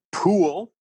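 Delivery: high, loud drawn-out pool; sign read out. Retold or imitated. Reading the hotel sign, announcing the word.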